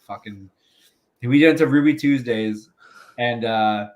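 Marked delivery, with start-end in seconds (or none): 0.1-0.5 muttered curse. Retold or imitated. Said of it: "I'm like".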